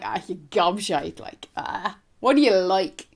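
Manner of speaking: light, affectionate ribbing; playful teasing. Shown as a demonstration. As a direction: tease a friend who's being a bit silly. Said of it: "it's usually in a playful way".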